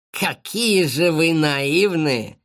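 slow mocking sneer; scornful exclaim. Kosoy sneers at the naive friends, slow and mocking. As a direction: savour their naivety with contempt. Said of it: "воскликнул Косой".

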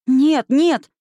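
high, loud protest; distressed cry. A narrator's reading. Dorothy protests as Toto is taken, crying out. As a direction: cry out in alarm. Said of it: "закричала Дороти".

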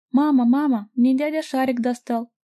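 put-on high, excited child calling out; little girl's voice. A narrator's reading. Little girl shouting to her mum about the balloon, high and excited. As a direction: call happily for mum.

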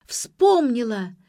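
loud, high, stretched-out cry. A narrator's reading. Ksyusha's memory returns suddenly, crying out. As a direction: wail it out long and high. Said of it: "завопила Ксюша".

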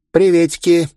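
put-on high, loud bubbly girlish greeting; giddy party girl. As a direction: squeal it out like a hyper teen. Девчонка вылезает из шкафа. (восторженный писк девчонки)

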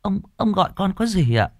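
put-on high, polite young maid; servant girl's voice. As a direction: lift the voice up like a deferential young servant girl. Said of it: "Con Cúc hỏi". (giọng cô hầu gái trẻ, cao và lễ phép)

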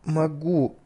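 slow, squealing sob-like words; hysterical squeal. A narrator's reading. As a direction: squeal on the verge of panic. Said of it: "с истерическим подвизгиванием". (истерическое подвизгивание)

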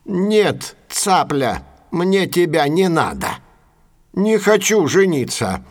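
indignant refusal. Acted. Crane turns down the heron's proposal, indignant.

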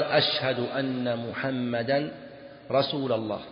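slow call, رسول ending in a, "rasula"; wrong a ending on رسول; grammar-slip demo. Shown as a demonstration. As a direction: draw it out, رسول with accusative -a. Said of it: "لحن، لا ريب أنه لحن".

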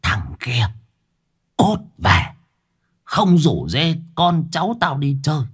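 shrill cursing possessed grandmother; cursing old woman. A narrator's reading. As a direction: spit the words out at the boy. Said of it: "trợn trừng chỉ vào tôi mà chửi".

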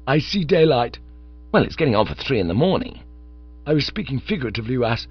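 lightly voiced, excited friend; Bingo, eager young chump. Bingo telling Bertie about his new hope, eager.

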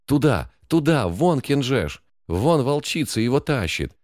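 high panicked wail; terrified screaming. A narrator's reading. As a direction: scream in terror pointing the way. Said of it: "вопила соседка в ужасе".

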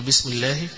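الله with a short single lam; lam left undoubled. Shown as a demonstration. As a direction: say الله without the doubling. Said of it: "مش هقول". (بدون تشديد اللام)

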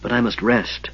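weak whisper. Acted. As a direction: barely get the words out, spent. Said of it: "the mage whispered".

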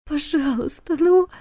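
high, breaking plea; tearful pleading. A narrator's reading. Trapped girl begs through tears, high. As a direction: beg through tears, rising. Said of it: "горячие слёзы".

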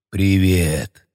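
deep hoarse undead rasp; rasping monster voice. Acted. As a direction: growl it from the depths. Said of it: "хрипящим голосом из глубины".

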